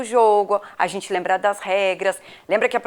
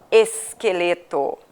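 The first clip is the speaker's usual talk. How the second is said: esqueleto slowly sounded out; syllable by syllable; 5 semitones lower, slower than usual. Shown as a demonstration. Sounding out word for spelling.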